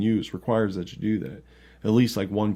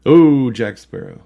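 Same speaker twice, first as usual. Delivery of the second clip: laughing while guessing; 3 semitones higher, 6 dB louder than usual. Real, not acted. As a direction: laugh through the words.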